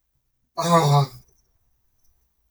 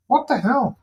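surprised; 9 semitones higher, 4 dB louder than usual. Real, not acted. Finds strange blue stains.

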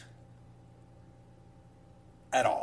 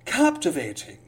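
grand, self-important reading; pompous voice. Acted. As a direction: puff up and announce it. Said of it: "a pompous voice mode".

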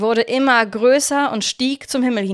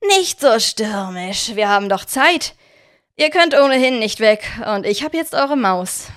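villain; 4 dB louder than usual. Acted. Victor taunting the caged children, smug. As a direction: tease the children from a position of power.

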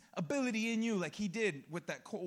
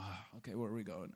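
hushed mock reply; 13 semitones lower, 11 dB quieter than usual. Wife's reply voiced.

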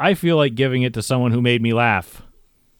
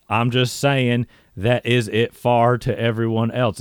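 Southern accent. Shown as a demonstration. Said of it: "if you read it in Southern".

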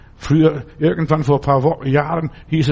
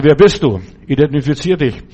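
louder, firm challenge to an unknown spirit; challenging demand; 4 dB louder than usual. Retold or imitated. Pastor in the light demanding the spirit identify itself, firm and loud. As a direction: order the spirit to name itself.

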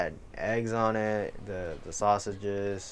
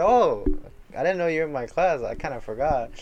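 higher, louder innocent voice; genuine classmate; 7 semitones higher, 6 dB louder than usual. Retold or imitated. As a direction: play it innocent and sincere. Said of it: "genuinely, he's like".

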